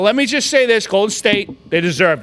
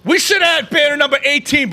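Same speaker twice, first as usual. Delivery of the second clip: indignant, shouted complaint; hot with anger. Real, not acted. Fan mourns banner number eighteen, hot with anger. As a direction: protest the stolen championship. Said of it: "I'm so fucking hot right now".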